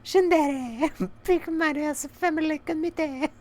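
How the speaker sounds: very high comic falsetto; playful sky-high put-on voice; silly high voice. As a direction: squeak out the reading in a mock voice.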